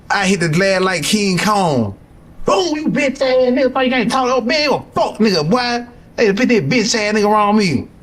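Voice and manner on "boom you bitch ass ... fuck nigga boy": retold angry yell. Cursing the security guard through the glass, hammed-up yell. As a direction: relive banging the glass and cursing him out.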